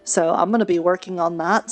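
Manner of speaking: ordinary talk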